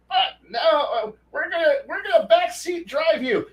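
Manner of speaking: high whiny mock of bossy players; mocking whine. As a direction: sneer at the backseat drivers. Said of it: "mocking the backseat players".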